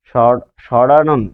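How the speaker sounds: ষড়ানন said slowly with a clear ড়; slow demo. Shown as a demonstration. Teacher slowly modelling ষড়ানন for students. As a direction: stretch ষড়ানন out for the class. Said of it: "আরো বলছি".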